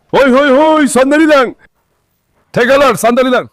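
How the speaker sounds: high, urgent calls to stop; urgent calling out. Real, not acted. Sumasaway sa mga aso. (pasigaw na pagsaway)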